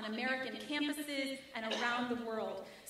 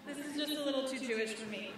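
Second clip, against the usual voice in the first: mock inner worry; 3 dB quieter, faster than usual. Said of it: "we walk into a deli and we think".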